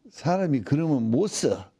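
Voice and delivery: a homely admonition with a Jeolla lilt; Jeolla dialect. Retold or imitated. Recalling the elders' lesson on being a decent person, in Jeolla dialect. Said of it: "이제 전라도 사투리로".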